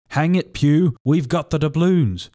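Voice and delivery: high, slow grumbling pirate; grumbled. A narrator's reading. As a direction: grumble back at the blind man. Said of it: "grumbled one".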